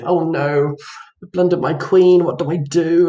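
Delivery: mock "oh no" panic, mildly played; feigned dismay. Player faking a queen blunder, feigned dismay. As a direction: pretend to despair, understated. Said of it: "acting as if".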